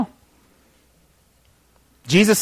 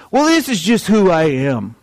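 put-on country accent; 7 semitones higher, 3 dB louder than usual. Preacher mimicking people who excuse cheating, country accent. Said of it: "he doesn't have to have a country accent".

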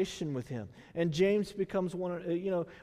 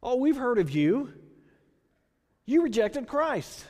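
put-on Indian accent; 5 semitones higher, 4 dB louder than usual. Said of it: "the only kind of sort of accent I can do".

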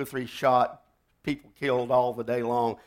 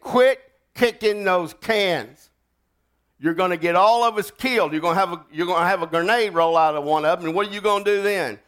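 loud, higher scolding warning; urgent scolding; 3 semitones higher, 4 dB louder than usual. Retold or imitated. Shouting at the kid kicking cans, angry warning.

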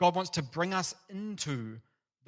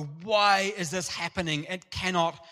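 a raised, protesting cry to God; shouting at God; 3 semitones higher, 4 dB louder than usual. Retold or imitated. Person outraged at injustice shouting at God, raised protest. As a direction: demand an answer, a bit louder. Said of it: "you shout at God and go".

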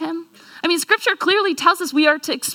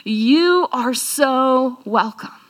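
grinning Jesus; 2 semitones lower, slower than usual. Acted. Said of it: "the biggest grin on his face".

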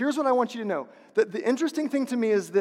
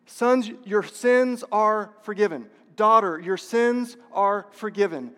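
preaching declaration; 4 dB louder than usual. Acted. Pastor declaring forgiveness over the whole congregation, preaching hard. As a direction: pound the refrain home, line after line.

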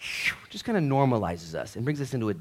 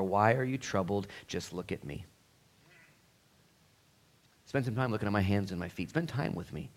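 gentle Jesus voice; 5 dB quieter than usual. Acted.

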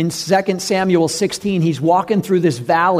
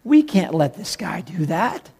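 pleading soldiers; 6 semitones higher, slower than usual. Acted. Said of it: "And the soldiers are like".

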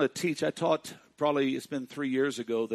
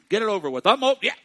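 1 impatient shout; 7 semitones higher, 12 dB louder, faster than usual. Acted. Preacher mocks impatience.

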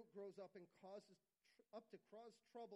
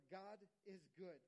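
"God is good" slow and spaced out; emphatic; slower than usual. Real, not acted. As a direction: stretch out each word of "God is good" for emphasis. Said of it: "I need to emphasize that".

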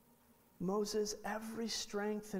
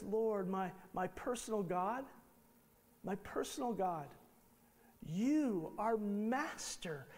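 mock flattery. Moses flattering God.

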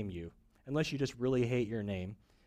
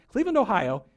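Cleveland, Ohio said louder and higher in crisp American English; perfect American accent; 5 semitones higher, 6 dB louder than usual. Retold or imitated. Preacher mocking a Spanish newscaster switching to perfect American English. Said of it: "Perfect English accent".

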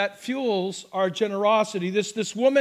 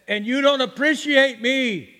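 lightly imitating an Italian mother's accent; a hint of Italian-accented reproach; 3 semitones higher, 3 dB louder than usual. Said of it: "in her great Italian accent".

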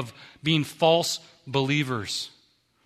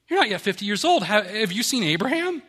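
raised, incredulous scoff with a laugh; mock him, higher, half laughing; scoffing accusers; 5 semitones higher than usual. Preacher voicing the Jews scoffing at Jesus' age, incredulous.

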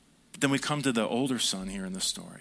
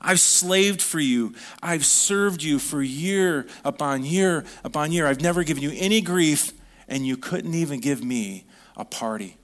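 put-on the resentful older son listing his years of service; hammed-up sulky grievance; bitter complaint. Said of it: "look at the response of the older brother".

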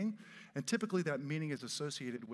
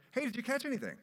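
nosy passerby; 9 semitones higher, 3 dB louder, faster than usual. Retold or imitated.

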